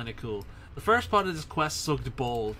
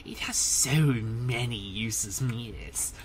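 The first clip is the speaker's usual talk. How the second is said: creepy man voice. Acted. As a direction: purr it like a sinister cult leader. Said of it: "I get to use the creepy man voice".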